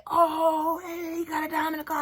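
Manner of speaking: high, quick teasing voice; teasing football players. Retold or imitated. Players teasing the guy about his date, high and quick. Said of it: "they look in the car and say".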